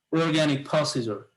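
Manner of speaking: "organic procedure" said very slowly, each syllable clear; slow model pronunciation. Shown as a demonstration. Teacher modelling the word organic, slow and deliberate. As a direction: spell out "organic" slowly for the class. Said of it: "এটাও এ উচ্চারণ হচ্ছে".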